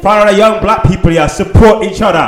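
put-on Jamaican accent. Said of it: "a yard man gonna talk to you".

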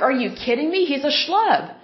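a touch of exasperated disbelief; incredulous scorn. Retold or imitated. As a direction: retell your scoffing reaction, pitch lifted. Retells own scornful reaction.

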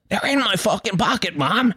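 high, strained scream at mother; high-pitched hysterical mock scream; retold scream. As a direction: scream it an octave up, without real volume. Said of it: "I mean, I screamed it".

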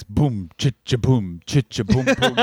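mouthed strutting beat; imitated walking noise. Podcaster imitating his co-host's walk down the hallway, mock strut noise. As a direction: sound out a rhythmic boom-cha strut. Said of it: "this is the noise it makes".

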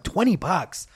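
high-pitched disbelief; incredulous echo. Retold or imitated. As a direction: balk at the price.

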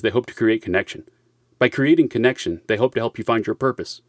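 measured, formal announcer read; formal disclaimer read. Acted.

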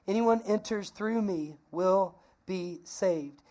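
slow recap. Shown as a demonstration. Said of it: "slow recap".

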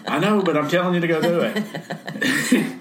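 firm but amused divine answer; God's voice. Retold or imitated. God answering him, voiced in the retelling.

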